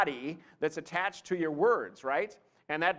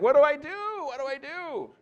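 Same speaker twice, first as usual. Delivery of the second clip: comic panicked wail, much higher than usual; mock panic; 10 semitones higher, 5 dB louder than usual. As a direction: play a presenter suddenly at a loss. Acted panic of a nervous presenter.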